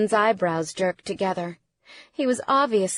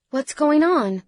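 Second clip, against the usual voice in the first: higher-pitched, startled woman; worried demand to know; alarmed question; 7 semitones higher, 4 dB louder than usual. A narrator's reading. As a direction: ask it with rising alarm.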